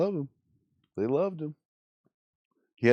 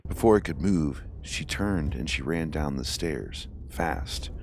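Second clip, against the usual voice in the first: story narration; 3 semitones lower, slower than usual. A narrator's reading. Reads ghost story aloud.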